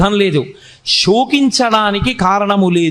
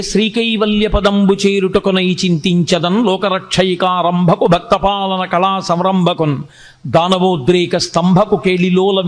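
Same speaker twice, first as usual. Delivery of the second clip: slow, measured Telugu verse chant; poem recitation; 2 semitones lower than usual. Acted. Teacher reciting Pothana's opening poem, slow chant. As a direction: recite the padyam in an even, stately flow.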